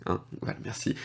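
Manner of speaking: unvoiced whispered thanks under the breath; whispered aside. Real, not acted. Teacher whispering thanks to himself after the English joke. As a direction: mutter a little thanks to yourself.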